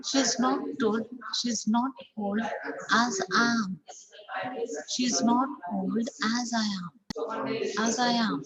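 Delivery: final "am" fully pronounced; strong am. Shown as a demonstration. Teacher modelling strong "am". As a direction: keep "am" strong at the end. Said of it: "So am is a strong form".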